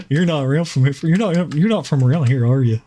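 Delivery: a hint of a small-town Southerner quizzing; hammed-up Southern local asking where you're from.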